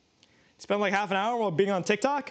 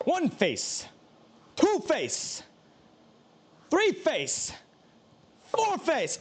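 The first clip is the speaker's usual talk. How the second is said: rising count; 8 semitones higher, much slower than usual. Acted.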